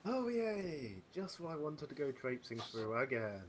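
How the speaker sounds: high sarcastic cheer then dry. Acted. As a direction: fake delight at going back into sewers. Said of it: "It's, it's so thick with sarcasm".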